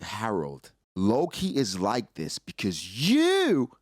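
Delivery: building from plain to a high, loud scolding; pissed off, telling a father what his kid needs; lecturing Harold. Retold or imitated. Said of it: "'cause I'm like".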